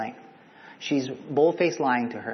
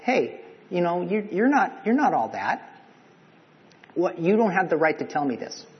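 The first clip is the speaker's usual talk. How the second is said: snarky; 4 semitones higher than usual. Retold or imitated. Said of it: "She's being snarky in this".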